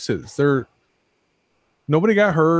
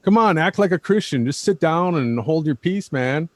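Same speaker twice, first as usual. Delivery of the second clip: preachy mock scold, pitched higher; mocking a commenter; 4 semitones higher than usual. Parroting a Christian commenter's scolding, in a mock preachy tone. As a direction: lecture them like a sanctimonious commenter. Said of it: "that's another comment we keep getting".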